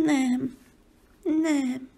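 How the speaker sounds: squeaky. Shown as a demonstration. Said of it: "cincogó nem".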